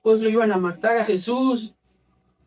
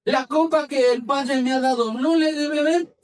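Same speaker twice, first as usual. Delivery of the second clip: raised-pitch, insistent question; emphatic question, climbing higher at the end; forceful rebuke; 4 semitones higher than usual. Acted. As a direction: act it out as a firm challenge. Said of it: "le ha de haber dicho bien fuerte".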